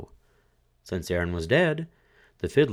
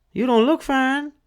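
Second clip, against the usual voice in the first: much higher, louder scolding widow; widow's voice; 5 dB louder than usual. A narrator's reading. Widow scolding her dead husband, high and loud. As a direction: sneer at the corpse.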